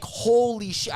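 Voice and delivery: high-pitched retold shock; aghast exclamation in retelling. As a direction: relive the stunned reaction, voice lifted. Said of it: "I was shocked".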